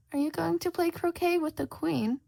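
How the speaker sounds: Cheshire Cat. Acted. Cheshire Cat answering lost Shota, sly and amused. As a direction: purr it like a teasing cat.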